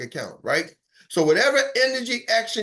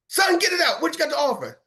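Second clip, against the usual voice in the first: impatient shout; 8 semitones higher than usual. Acted. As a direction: bark at him like an impatient old man. Customer shouts at the caller.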